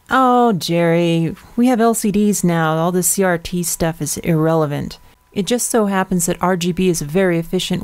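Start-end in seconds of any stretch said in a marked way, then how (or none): 0.1-5.0 drawn-out "Oh, Jerry", mildly mocking; imagined viewer objection. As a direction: lightly mimic a dismissive viewer's complaint. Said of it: "You might be thinking".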